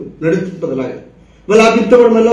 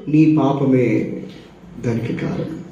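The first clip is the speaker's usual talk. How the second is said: very slow, fading to a whisper; solemn quote; 8 semitones lower, 8 dB quieter, slower than usual. Acted. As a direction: let the verdict sink in slowly. Quoting Jeremiah solemnly. (నెమ్మదిగా గంభీరంగా గుసగుస)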